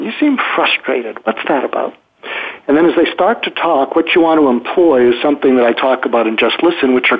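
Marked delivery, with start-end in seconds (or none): 0.0-1.9 making a statement. Shown as a demonstration. Coach showing how to address a frustrated person, matter-of-fact statement. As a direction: state it evenly and without whining. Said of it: "So you make a statement".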